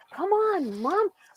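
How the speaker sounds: tiny, very high, put-on little kitten voice. Reaching for a kitten on the bed with its mother, the speaker voices the kitten. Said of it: "He's like".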